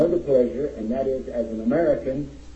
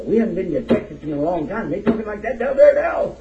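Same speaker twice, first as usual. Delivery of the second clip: high mock astonishment, climbing louder at the end; imitated puzzled listeners; 9 semitones higher, 5 dB louder than usual. Folks from Memphis reacting to Texas talk, mock astonishment. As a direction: play baffled onlookers, pitch climbing high. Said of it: "and they were saying".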